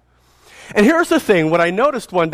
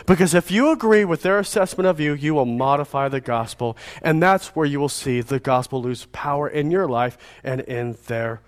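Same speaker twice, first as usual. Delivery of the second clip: preaching; 3 semitones higher than usual. Acted. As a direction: drive the charge home to the congregation. Preaching the application.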